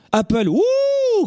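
very high, long drawn-out mock wonder; mock-amazed hoot; sarcastic awe. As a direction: swoop up into an exaggerated impressed "ouh". Sarcastic awe at Apple logo.

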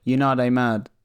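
London roadman accent, heavier take. Shown as a demonstration. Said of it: "the kind of roadman accent".

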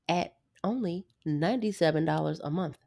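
salesy pitch voice; infomercial. Acted. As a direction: sell the price like a TV ad. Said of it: "I sound like an infomercial".

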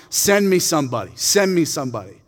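mildly acted giant's taunt; taunting challenge. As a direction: call out a challenge, lightly hammed. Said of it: "does his taunt".

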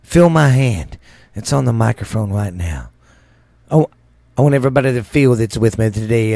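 sweet-talking televangelist over music; preacher voice. Acted. Mock radio preacher continues.

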